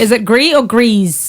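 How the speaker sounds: first Gris said as "gree", second Gris said with the S sounded; both pronunciations contrasted. Shown as a demonstration. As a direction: set Gris with a silent S against Gris with the S sounded. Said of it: "I want somebody French".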